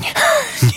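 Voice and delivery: sudden high scornful laugh; a sharp villain's cackle; mocking laugh. A narrator's reading. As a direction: laugh in their face, way up high. Villain laughs at victim question.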